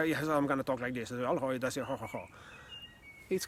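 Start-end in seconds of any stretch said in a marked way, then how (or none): 0.1-2.3 exaggerated copy that talks down; imitating someone's voice condescendingly; condescending parrot mimic. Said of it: "so I don't sound condescending".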